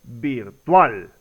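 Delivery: "virtual" stressed on TUAL, low and falling; correct stress on TUAL. Shown as a demonstration. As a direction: confirm "virtual" deliberately, with weight on TUAL. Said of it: "La pronunciación correcta es".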